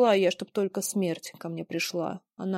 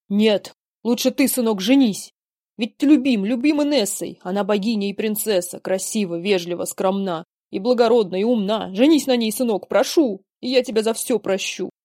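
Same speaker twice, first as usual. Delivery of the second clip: insistent urging; 6 dB louder than usual. Acted. Father urges son to marry.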